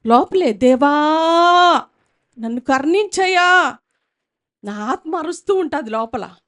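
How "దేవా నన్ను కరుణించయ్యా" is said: crying out. Shown as a demonstration. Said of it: "నేను కొన్నిసార్లు అట్లా అరుస్తా".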